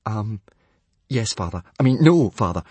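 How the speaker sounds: hesitant, flustered self-correction; falter, then blurt the correction; stammering. Acted. Son cornered by his father, stammering. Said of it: "stammered Hiccup".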